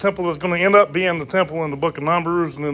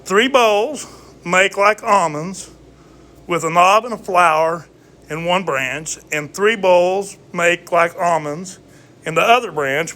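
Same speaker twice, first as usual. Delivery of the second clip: slow, raised King James reading; scripture reading; 2 semitones higher than usual. Acted. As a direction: read the verse like scripture. Reads scripture aloud.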